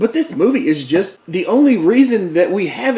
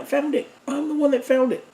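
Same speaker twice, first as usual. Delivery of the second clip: laughing; 10 semitones higher, 6 dB quieter than usual. Real, not acted. Admits he found bad movie.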